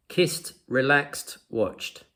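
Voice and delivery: "Kissed, relaxed, watched" slowly listed, each ending in "t". Shown as a demonstration. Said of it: "the E D sounds like a t".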